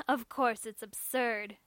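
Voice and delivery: slow, falling, agreeing "Of course". Acted. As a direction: concede it slowly, wryly. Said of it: "she agreed".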